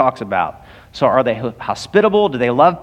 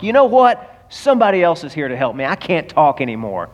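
smug satisfaction. Retold or imitated. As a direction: dismiss them with mild self-satisfaction. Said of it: "I said it with some smug satisfaction".

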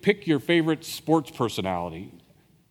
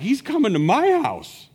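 ecstatic; 11 semitones higher, 5 dB louder than usual. Acted. Zacchaeus overjoyed.

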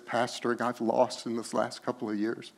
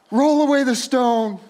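louder, higher firm order; loud command; 10 semitones higher, 9 dB louder than usual. Acted. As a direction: call it out as a command. Jesus commands the stone moved.

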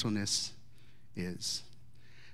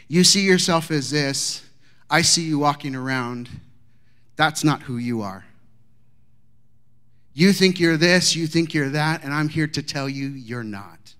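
raised, scolding teacher voice; stern lecture; 5 dB louder than usual. Retold or imitated. Teacher scolding a student on the lawn, loud and stern. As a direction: lay into him like a stern teacher.

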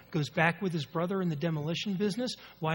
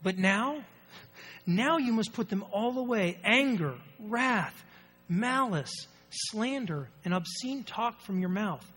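scripture reading. Real, not acted. Reads scripture aloud.

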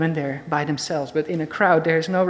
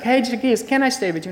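casual asking; 4 semitones higher, faster than usual. Pretend. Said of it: "It's not just like".

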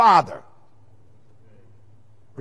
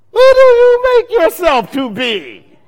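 mocking Jews; 10 semitones higher, 9 dB louder than usual. Jews mocking Jesus, read out.

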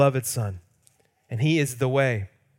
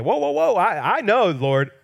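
excited, much higher "whoa, whoa, whoa", then a laugh; preacher hamming up Peter's eager protest; 6 semitones higher, 3 dB louder than usual. Retold or imitated. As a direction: jump in like the keen disciple who wants credit. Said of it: "I'm sure Peter's thinking".

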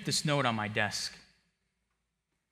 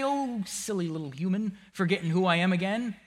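mocking God; 5 semitones higher than usual. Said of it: "He doesn't say".

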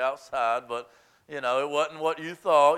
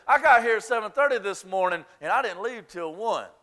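mock entitled volunteer. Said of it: "it would shape up like this".

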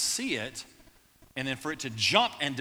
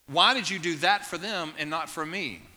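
mildly raised, earnest questioning; honest plea to God; 3 semitones higher, 4 dB louder than usual. Acted. Worshipper asking God where he is, an honest plea. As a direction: plead openly, a touch of hurt. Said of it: "if we would be honest with God".

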